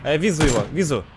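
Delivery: put-on визу for вижу, joking Chinese-accented Russian; lightly mocking Chinese accent. Mock Chinese accent in callouts.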